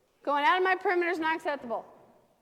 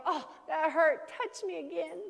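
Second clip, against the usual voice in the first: voicing the dog; 3 semitones higher, slower than usual. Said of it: "they go".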